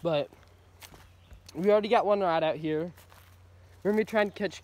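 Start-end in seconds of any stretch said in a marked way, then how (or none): 0.0-2.9 talking around sunflower seeds; mumbling with a full mouth. Real, not acted. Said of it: "I have sunflower seeds in my mouth".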